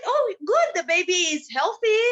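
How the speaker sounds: lightly voiced doctor, cheerful news; doctor's words. Narrator voices the doctor telling the couple, mild cheer. Doctor quoted in retold story.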